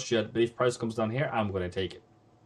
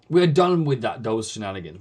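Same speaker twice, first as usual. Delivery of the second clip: loud scolding; 6 dB louder than usual. Real, not acted. Scolding viewers over bad trades.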